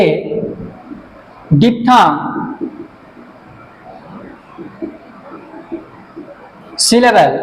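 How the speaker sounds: one word at a time with long gaps, some spelled out letter by letter; word-by-word dictation. Shown as a demonstration. Teacher writing on the board and dictating word by word, slow. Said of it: "এর সংজ্ঞাটা বলে দিচ্ছি".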